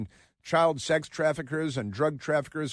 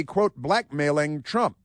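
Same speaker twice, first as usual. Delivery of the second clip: slow, deliberate quote marks; sarcastic air quotes; slower than usual. Shown as a demonstration. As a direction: drag out the quote to mock it. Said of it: "quote ... end quote".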